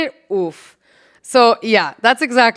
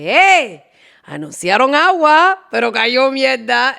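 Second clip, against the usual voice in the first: cheeky; 3 semitones higher, 4 dB louder than usual. Pretend. Cheeky phrase for newcomer.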